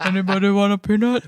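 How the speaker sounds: imitating a goofy low-register movie voice; lightly voiced lovable lug; put-on deep voice. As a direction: try for that dopey deep voice. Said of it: "try to do that voice".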